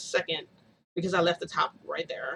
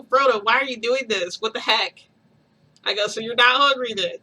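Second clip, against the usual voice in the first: exasperated; 5 semitones higher, 8 dB louder than usual. Retold or imitated. Exasperated at baby knocking bottle.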